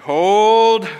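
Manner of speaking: sudden high yelled hold; a sharp, loud, high cry of hold; bracing shout. Retold or imitated. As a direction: blurt it out loud like bracing for impact. Bracing for wife's scolding.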